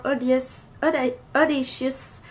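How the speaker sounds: English shade name in a Québécois French accent; real French accent on English. Real, not acted. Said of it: "Désolée pour mon accent anglais".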